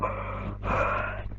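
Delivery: long breathy yawn; big yawn. Real, not acted. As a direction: let out a tired yawn. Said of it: "Yawn number two".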